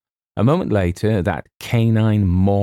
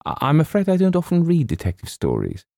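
put-on high, stammering girlish apology; bashful; 11 semitones higher than usual. A narrator's reading. Girl admits she skips detective stories, bashfully. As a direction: confess shyly in a high voice. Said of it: "she blushed".

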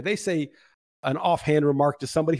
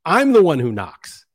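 slow, louder menacing line, lightly voiced; Walter White; 2 semitones lower, 6 dB louder, slower than usual. Retelling Breaking Bad, husband answers wife with a slow, lightly menacing line. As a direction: lean in and deliver it as a slow threat. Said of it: "And he says".

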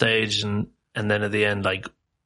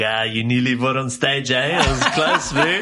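put-on a light South African accent, teasing and laughing; 2 semitones higher than usual. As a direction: tease him in a mild South African accent. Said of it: "and he's South African. He's like".

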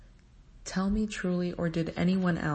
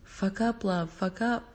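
sweet nothings; 3 semitones higher than usual. Acted. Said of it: "murmured tenderly".

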